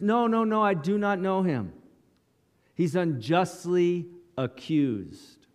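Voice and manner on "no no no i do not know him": panicked denial. Retold or imitated. Peter denies knowing Jesus.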